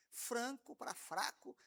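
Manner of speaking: slow contrast of "Franco" with its nasal N against "fraco" without one; Franco versus fraco. Shown as a demonstration. Teacher showing the class the one-letter difference slowly. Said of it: "a diferença é muito grande".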